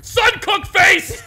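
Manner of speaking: very high, slow, loud holler; dim-witted brute.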